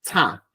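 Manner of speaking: CHA sounded through the nose; nasalised "cha" syllable; nasal cha. Shown as a demonstration. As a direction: let air out of mouth and nose on "cha".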